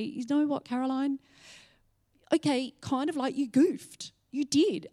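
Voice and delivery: light mock reproach; the Lord teasing. The Lord pointing out her mistake, lightly voiced teasing rebuke. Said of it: "a lesson that the Lord wanted to say".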